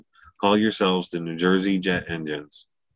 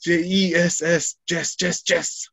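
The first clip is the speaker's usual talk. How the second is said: mock child spelling; 12 semitones higher, slower than usual. Mocking the misspelling, sing-song.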